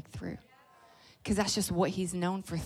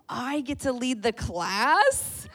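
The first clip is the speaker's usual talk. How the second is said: put-on thrilled child; 5 semitones higher, 4 dB louder, slower than usual. Daughter thrilled by teacher's offer.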